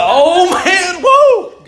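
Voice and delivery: high, loud mock-revival holler; excited whooping. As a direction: whoop it up like a thrilled congregation. Imitating excited reaction to preaching.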